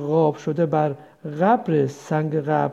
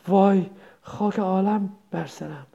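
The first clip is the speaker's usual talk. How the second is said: a mother suddenly remembering a birth; dismayed wail. Acted.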